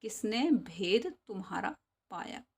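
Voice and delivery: sing-song poem recital for class; poem recitation. Shown as a demonstration. Teacher chanting a Hindi poem for the class, sing-song. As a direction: chant the verse to the pupils.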